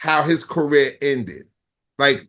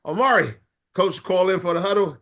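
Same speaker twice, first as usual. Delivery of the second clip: high mock voices; 5 semitones higher than usual. Voicing coach and Amari.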